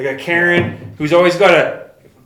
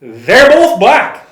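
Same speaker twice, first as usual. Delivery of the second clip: 1 flat deadpan retort; 8 semitones higher, 9 dB louder, much slower than usual. Retold or imitated. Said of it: "He's like".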